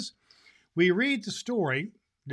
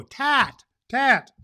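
put-on much higher, louder baby-talk cry; toddler exclaiming; 9 semitones higher, 9 dB louder than usual. Little brother echoing his sister, excited toddler voice. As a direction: squeal it like a tiny boy. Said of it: "exclaimed like echo".

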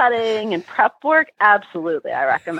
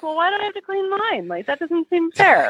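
whiny complaint; 9 semitones higher than usual. Retold or imitated. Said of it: "I'm like".

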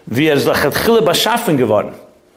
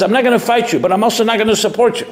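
enemy's voice; 6 semitones higher, faster than usual. Retold or imitated. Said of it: "The enemy says".

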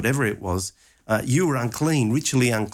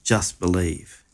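gentle reassurance; 3 semitones lower than usual. Acted. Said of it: "Jesus says".

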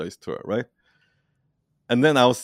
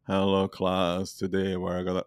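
slow, low, droning teacher impression; Ben Stein; 3 semitones lower, 7 dB quieter than usual. Imitating a dull teacher addressing class, slow and droning. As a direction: drag it out softly like a sleep-inducing lecturer. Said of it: "he is talking like Ben Stein".

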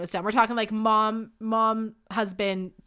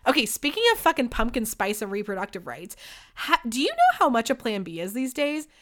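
normal talking voice

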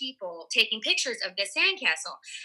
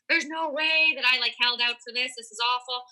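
mock panic; 3 semitones higher than usual. Actress recalls dreading the script she's under contract for, mock panicking. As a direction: act out a panicked protest, pitched up at the start. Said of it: "and I'm, like, panicking".

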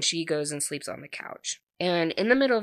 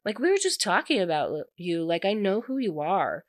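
offended; 3 semitones higher than usual. Retold or imitated. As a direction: act out someone mildly affronted. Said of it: "he looks all offended".

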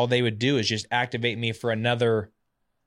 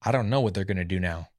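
light Texas twang imitating a manager; resigned coach with a touch of Texas accent; 3 semitones lower than usual. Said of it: "he had this Texas twang".

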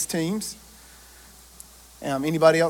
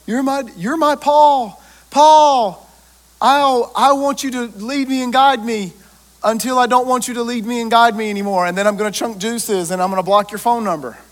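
high, whiny mock disciple voice; mocking clingy disciple; 4 semitones higher, 4 dB louder than usual. Preacher mocking a disciple who drops his mentor, high and whiny. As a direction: ham up the needy disciple who later ghosts. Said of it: "They were like".

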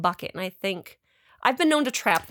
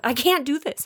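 higher-pitched mock panic; retold loss of nerve, pitched up; backing out in panic; 5 semitones higher than usual. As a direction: chicken out, voice jumping up. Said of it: "like, run away".

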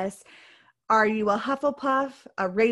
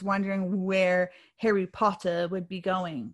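put-on slipping into a light British accent; a touch of amateur British on the name; mock British accent; 3 semitones lower than usual. Host recalling suspense over the sorting, light British accent. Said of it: "pardon me and my accent".

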